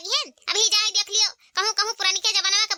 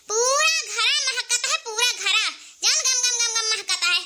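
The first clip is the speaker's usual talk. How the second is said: laughing delight; 3 semitones higher than usual. Acted. Younger sister-in-law praising the curry, laughing. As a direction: chuckle with joy at the smell.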